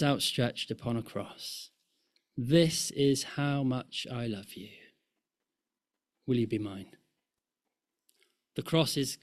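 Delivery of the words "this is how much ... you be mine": tender proposal. Acted. Voicing God's proposal from cross.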